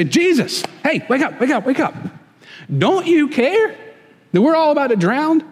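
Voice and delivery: high, urgent calling to wake him; frantic disciples shaking Jesus awake; panicked plea. Acted.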